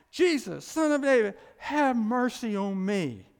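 loud plea. Acted. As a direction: cry it out to be heard. The blind man's plea.

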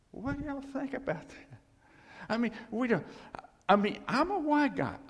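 high and loud; lively. Real, not acted. Preacher rousing the congregation, high and loud. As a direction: perk up and grab the room.

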